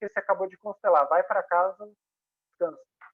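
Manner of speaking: ordinary delivery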